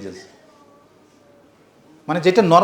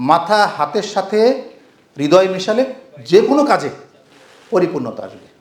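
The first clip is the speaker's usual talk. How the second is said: slow emphatic repeat. Shown as a demonstration. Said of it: "কথাটা মনে থাকবে?".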